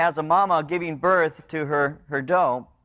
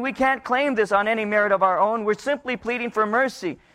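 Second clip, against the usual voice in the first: higher, humble plea for mercy; pleading sinners; 4 semitones higher than usual. Retold or imitated. Sinners confessing to the Lord, humbly pleading. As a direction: admit it and beg. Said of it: "and they're saying".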